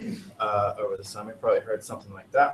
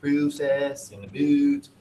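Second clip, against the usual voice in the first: exaggerated Canadian long O in "process"; mock Canadian vowels, drawn out; imitated Canadian pronunciation; Canadian accent; 3 semitones higher, much slower than usual. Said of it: "which just scream Canadian".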